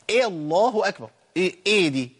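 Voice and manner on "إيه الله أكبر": الله أكبر opened on "eh" instead of "a"; imala. Retold or imitated. Imitating an imam's opening takbir, imala on الله. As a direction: begin الله with a tilted "eh" vowel. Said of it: "لا، أنت عملت إمالة".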